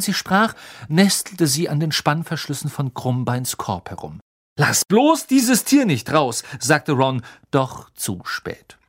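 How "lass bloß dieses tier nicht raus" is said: higher, louder, slow warning; higher, slower anxious warning; alarmed Ron. Acted. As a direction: warn her urgently, drawn out. Ron warns about cat.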